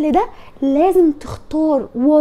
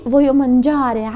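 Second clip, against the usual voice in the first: slow example; much slower than usual. Shown as a demonstration. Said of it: "أنا عايز إيه؟".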